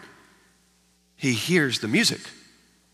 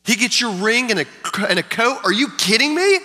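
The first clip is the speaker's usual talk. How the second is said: resentful complaint. Acted. Older brother complains to father.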